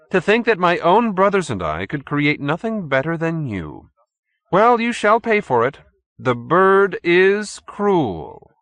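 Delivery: sinister chairman threatening his captive; menacing chairman. A narrator's reading. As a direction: pronounce judgement like a cruel master. Stolz threatens Randall.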